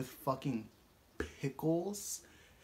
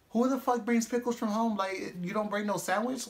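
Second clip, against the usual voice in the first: incredulous yell; 6 semitones higher than usual. Retold or imitated. Telling the pickle girl off, incredulous mock yell. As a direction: shout it in total disbelief at her. Retold outraged question to girl.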